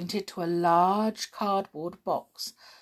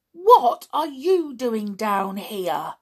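demanding; 3 semitones higher, 6 dB louder, slower than usual. Acted. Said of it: "demanded the boy".

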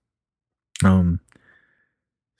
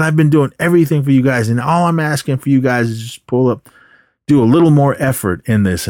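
exasperated retold plea, raised pitch; mild mock yelling; 4 semitones higher than usual. Fed-up teacher appeals to his class, mildly mock yelling. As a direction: imitate a teacher at the end of patience. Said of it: "he was just yelling at all of them".

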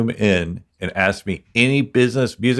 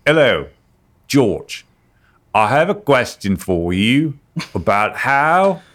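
Cockney accent; 5 semitones higher, slower than usual. Shown as a demonstration. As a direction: call out in a put-on Cockney accent. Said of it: "in a Cockney accent".

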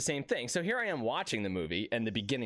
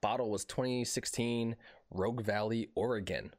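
mock fancy. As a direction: savor each word like a sommelier. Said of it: "I'm gonna sound real fancy".

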